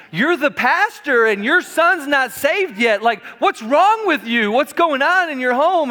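mock the lady's scornful judging; disdainful church lady. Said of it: "you could see the disdain in her face".

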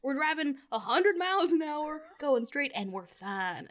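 a light, mock Southern accent kept going. Mocking the movie's stunts in a playful Southern accent. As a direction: keep the joking Southern twang light. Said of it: "but I'm gonna keep doing it".

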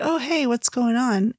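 slow, easygoing greeting; calm and collected. Retold or imitated. Tyler opening the door to an upset visitor, calm. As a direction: act unbothered and casual. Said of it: "he's very calm and collected".

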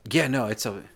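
slow, emphatic go at Geordie; mock Geordie with drawn-out vowels; attempted Geordie accent. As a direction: try a broad Geordie accent, badly. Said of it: "trying to do a Geordie accent".

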